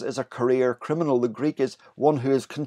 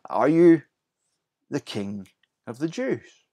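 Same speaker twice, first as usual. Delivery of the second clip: are YOU the king, emphatic you; stress on you. Retold or imitated. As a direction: lean hard on you, then let the king of the Jews drop. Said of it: "you" is emphatic".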